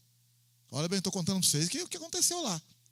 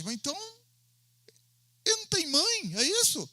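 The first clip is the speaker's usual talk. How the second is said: put-on higher, questioning young man's voice; puzzled student; 8 semitones higher than usual. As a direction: play the confused student, voice raised. (aluno confuso, voz mais aguda e hesitante)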